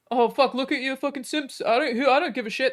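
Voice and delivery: imitating a defensive online troll; mocking right-winger. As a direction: ham up a dismissive troll yelling back. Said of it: "Their response is always".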